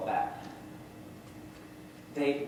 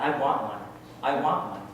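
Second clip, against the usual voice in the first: a touch louder, insistent wish; mildly excited, emphatic wanting; eager wanting; 5 dB louder than usual. Acted. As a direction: pipe up with an eager little demand. Child voices wanting a vagina.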